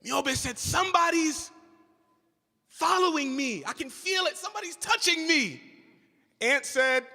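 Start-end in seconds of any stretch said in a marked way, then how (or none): 0.6-5.6 mild frightened voice. Acted. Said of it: "Why are you so anxious? Why are you so scared?".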